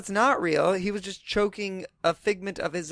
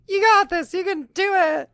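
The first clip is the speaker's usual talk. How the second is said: chirpy high encouragement; high squeaky kid voice; 13 semitones higher, 5 dB louder than usual. Retold or imitated. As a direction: cheer him on in a squeak. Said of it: "Ricky's like".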